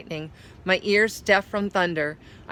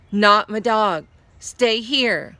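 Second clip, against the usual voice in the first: louder, urgent insistence; urgent plea; 3 semitones higher, 5 dB louder, slower than usual. Acted. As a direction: hold her back urgently. Guest grabs her skirt, insists.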